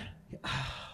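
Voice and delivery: soft, breathed-out sigh; heavy sigh. Real, not acted. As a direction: sigh after hard news. After sharing friend's cancer news.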